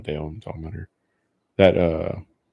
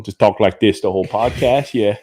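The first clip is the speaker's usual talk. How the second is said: exaggerated Cajun voice; put-on Cajun accent. Shown as a demonstration. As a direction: lay on a Cajun accent for fun. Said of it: "I'm gonna turn it on".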